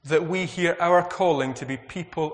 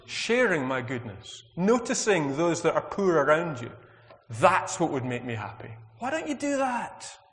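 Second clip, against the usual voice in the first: pleading, exasperated voice of God, pitched up; a frustrated God asking for more than rituals; 4 semitones higher than usual. Retold or imitated. Preacher voicing God exasperated with temple-goers. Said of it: "exasperation in God's voice".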